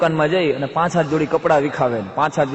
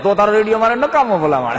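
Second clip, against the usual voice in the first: laughing dismissal; 5 semitones higher, 5 dB louder than usual. Acted. Uncle dismissing the radio.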